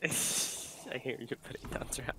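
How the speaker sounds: nerd voice. Retold or imitated. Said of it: "Like the biggest nerd voice".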